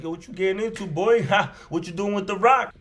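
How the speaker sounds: a buddy-buddy crack dealer calling out, laughing; imitating a friendly dealer. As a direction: play a dealer trying to hang out.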